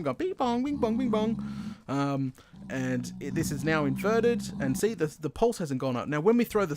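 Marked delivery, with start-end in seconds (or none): 0.0-1.7 alarm chime. Retold or imitated. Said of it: "That's hooked into an alarm".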